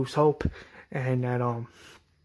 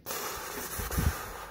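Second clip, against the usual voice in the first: soft, voiceless mouth-made noise; imitated banging noise; 8 dB quieter than usual. Rick hits the thing again, crudely imitated noise. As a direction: imitate hitting a gate with a toneless rush of breath. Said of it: "Sorry about my noises".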